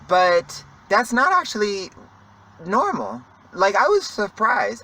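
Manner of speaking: talking sideways, guarding a tooth; talking funny around a sore tooth. Real, not acted. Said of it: "I feel like I'm talking so funny".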